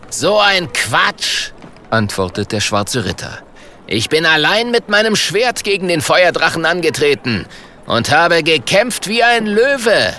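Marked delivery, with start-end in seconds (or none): 0.1-1.5 hoch und gedehnt abwehren; empörtes Abwiegeln. Acted. Ritter weist die Anklage zurück. 3.9-10.1 hoch, großspurig gespielte Prahlerei; prahlerischer Ritter. Acted. Ritter prahlt mit seinem Kampf.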